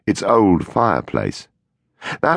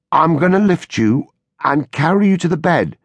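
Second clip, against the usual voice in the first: gentle, measured reassurance; very careful; 12 semitones higher than usual. A narrator's reading. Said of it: "Larry said very carefully".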